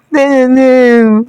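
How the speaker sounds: high put-on whimper; exaggerated fake sob; mock crying. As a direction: imitate her wailing without words. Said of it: "she was just crying and crying".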